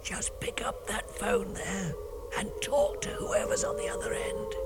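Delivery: hoarse whisper, voice nearly gone; lost voice whisper. Acted. DJ who lost his voice, whispering. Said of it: "sounding like this".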